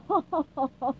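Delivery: loud spoken ha-ha of a villain; mock laugh. Wizard taunting SpongeBob, loud gloating ha-ha. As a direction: spell out each ha, gloating. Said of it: "Planktonomor laughed".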